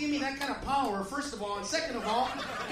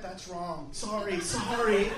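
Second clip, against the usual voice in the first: mock sheepish apology; 6 semitones lower, slower than usual. Mocking apologetic white people.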